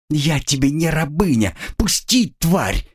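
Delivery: high, defiant shout; defiant anger. Acted. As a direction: spit the refusal at her. Girl defies captor.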